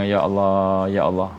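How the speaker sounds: a hint of happy relief; joyful relief. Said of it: "Dia punya gembiranya".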